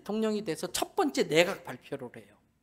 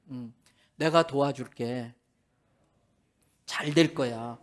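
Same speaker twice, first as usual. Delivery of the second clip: gentle empathetic lines; 3 semitones lower, 4 dB louder than usual. Shown as a demonstration. Pastor leading men to repeat comforting words, gently. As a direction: soothe her like a patient husband. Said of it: "따라 하세요".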